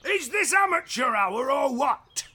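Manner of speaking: exasperated shout. Acted. Emperor raging at the news.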